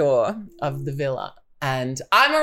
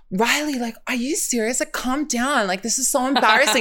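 higher-pitched imitation of an appalled sister; embarrassed scolding; 5 semitones higher than usual. Sister telling Riley to calm down, embarrassed scolding. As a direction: tell her off in a higher voice.

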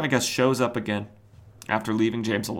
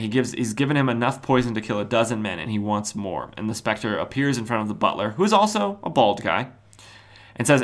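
ordinary talk

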